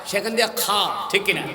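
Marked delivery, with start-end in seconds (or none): 0.6-0.7 "খ" rasped from where a tickly cough starts; throat "খ". Shown as a demonstration. Preacher demonstrates the cough-place letter, "খ" scraped in the throat. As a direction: make "খ" a guttural Arabic kha. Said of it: "যেখানে খুশখুশানি কাশ হয়".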